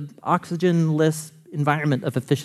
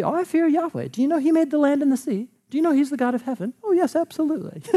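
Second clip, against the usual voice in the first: mock pious voice; 9 semitones higher, faster than usual. Mocking churchgoers reciting theology.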